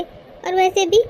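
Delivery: slow, drawn-out mimicry of the sister-in-law; mocking imitation. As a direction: stretch out और वैसे भी slowly to mock her. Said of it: "वो बोली". ("और वैसे भी" धीरे खींचकर नकल उतारते हुए)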